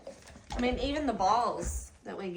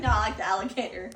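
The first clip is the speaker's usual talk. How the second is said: quick, louder mock dog voice; voicing the dog; 7 dB louder, much faster than usual. Owner voicing her dog as it picks the alligator, quick and loud. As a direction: rattle it off fast and loud as the dog. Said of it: "He looks like".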